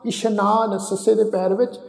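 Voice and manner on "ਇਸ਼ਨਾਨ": ਇਸ਼ਨਾਨ with sh, not s; dotted sassa, sh. Shown as a demonstration. Teacher showing the dotted letter, ਇਸ਼ਨਾਨ with a sh sound. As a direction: say ਇਸ਼ਨਾਨ as ish-naan. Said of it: "ਬਿੰਦੀ ਲਗਾ ਕੇ ਪਾਠ ਉਚਾਰਨ".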